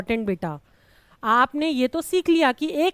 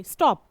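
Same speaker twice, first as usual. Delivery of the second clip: स्टॉप as one unbroken beat; one single burst. Shown as a demonstration. Teacher proving there is no pause, स्टॉप in one go. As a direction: say स्टॉप at once, no break inside. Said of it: "एक बार में बोला".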